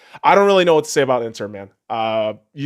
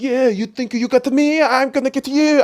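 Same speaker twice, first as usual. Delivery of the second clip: higher, cocky taunt in a put-on voice; taunting fighter; 9 semitones higher than usual. The Viper taunting the Mountain mid-fight, mock taunt. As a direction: goad your opponent with a sneer. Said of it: "the skinny fucking exotic dude's like".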